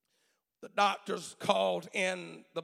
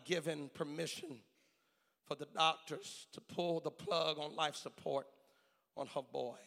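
hushed, grave storytelling; 2 semitones lower, 5 dB quieter than usual. Retold or imitated. Preacher recounts mother signing away life support, hushed and grave. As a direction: drop the voice and let the pauses hang.

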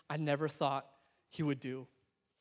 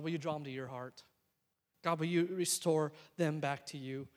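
soft, low prayer for those who hurt you; quiet prayer; 4 semitones lower, 11 dB quieter than usual. Shown as a demonstration. Pastor modelling a quiet prayer of blessing. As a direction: pray it gently, almost under your breath. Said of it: "lay it aside and say".

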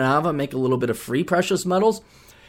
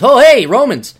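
mock Brit; 8 semitones higher, 9 dB louder than usual. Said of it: "history of the British Empire is".

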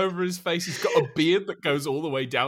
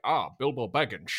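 slurred-s Scottish accent impression; Sean Connery; 2 semitones lower than usual. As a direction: imitate a Scottish film star, s turning to sh. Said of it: "like, a Sean Connery thing".

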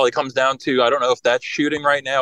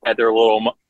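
choppy dropouts on the line; breaking up on a call; 2 semitones lower than usual. Real, not acted. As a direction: voice cutting in and out. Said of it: "you're breaking up a little bit".

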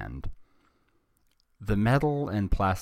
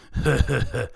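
loud, put-on goons' guffaw; hammed-up villain cackling; henchmen's loud laughter; 7 semitones higher, 7 dB louder than usual. A narrator's reading. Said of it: "laughed out loud".

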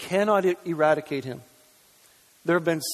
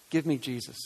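much softer, lower whispered-down echo; softer, lower echo of Give me Jesus; hushed plea; 5 semitones lower, 9 dB quieter than usual. Shown as a demonstration. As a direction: let it fall to a near hush. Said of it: "then we need to say".

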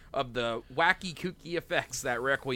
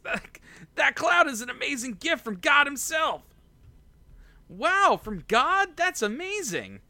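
put-on very high, louder, awestruck boy; excited high kid voice; 10 semitones higher, 4 dB louder than usual. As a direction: gush with wide-eyed wonder. Voicing Goku, excited.

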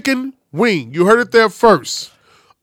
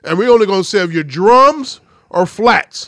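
white man impression; 5 dB louder than usual. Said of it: "white man said".

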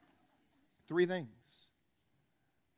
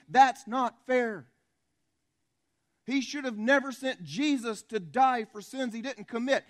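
high, forceful preaching rant; loud rant; 4 semitones higher, 4 dB louder, slower than usual. Real, not acted. Preacher telling the congregation grace is unfair, loud rant. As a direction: rant from the pulpit, driving each point home. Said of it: "my rather loud rant".

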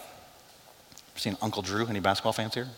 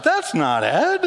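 slow realization; 7 semitones higher, much slower than usual. Retold or imitated. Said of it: "he was like".

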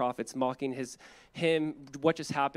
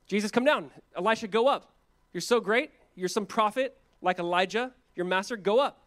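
higher-pitched jeering taunts; mock the prophet, voice lifted; 5 semitones higher, 3 dB louder than usual. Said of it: "when he's being mocked on the cross".

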